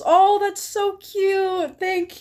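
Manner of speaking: high, slow, delighted gush; touched and delighted. Real, not acted. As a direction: melt a little at the kind message. Reacting to a viewer's message.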